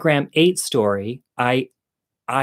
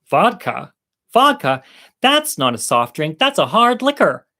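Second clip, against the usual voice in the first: mock disbelief; 3 semitones higher, 4 dB louder than usual. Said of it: "other two girls are like".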